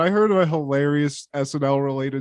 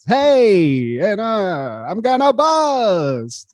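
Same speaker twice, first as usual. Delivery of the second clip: mock singer voice.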